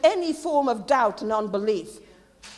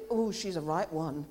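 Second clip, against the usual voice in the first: mocking onlookers; 5 semitones lower, 4 dB quieter than usual. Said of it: "They will think".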